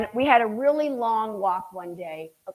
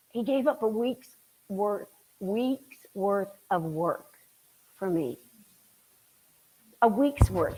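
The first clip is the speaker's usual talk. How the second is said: slow, softer words, moved; emotional, slowed; 4 dB quieter, slower than usual. Real, not acted. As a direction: let it sink in, touched. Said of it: "I get emotional".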